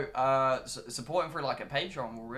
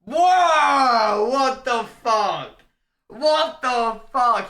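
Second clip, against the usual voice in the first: high, loud, slow mock shock; mock outrage; 9 semitones higher, 13 dB louder, much slower than usual. Reacting to a friend's lisp impression, loud mock outrage. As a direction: gasp in hammed-up horror. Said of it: "He's got a lisp".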